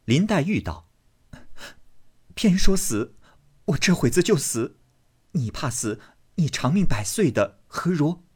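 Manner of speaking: high, rising to a sharp cry; petulant girl quarrelling. Acted. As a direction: hurl it at him in a pique. Daiyu quarrels.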